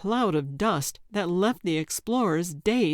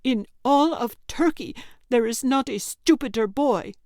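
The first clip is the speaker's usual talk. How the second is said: sneering insult; 6 semitones higher, 4 dB louder than usual. Acted. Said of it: "Yelda sneered".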